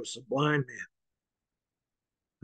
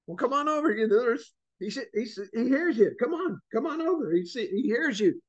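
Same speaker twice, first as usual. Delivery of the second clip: higher, eager coaxing voice; urging crowd; 5 semitones higher than usual. Acted. Crowd urging the blind beggar to stand up, eager and higher. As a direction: coax the blind man up, higher and lively.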